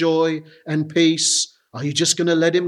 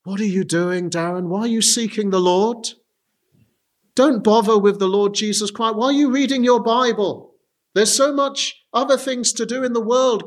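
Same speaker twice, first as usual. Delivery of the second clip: mocking acquaintances; 3 semitones higher than usual. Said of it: "what did all the people around me say to me".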